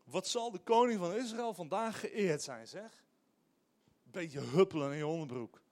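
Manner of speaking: sarcastic wife scolding. Retold or imitated. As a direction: sneer the praise as a wife mocking her husband. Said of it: "heel sarcastisch".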